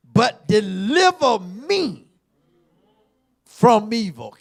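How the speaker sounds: preacher praying from evil aloud; loud prayer ending. Acted. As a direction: lift the prayer to a cry. Prayer line climaxes.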